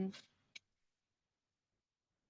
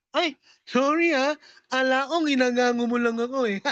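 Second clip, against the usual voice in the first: ngongo voice. Acted. Driver answering in ngongo voice.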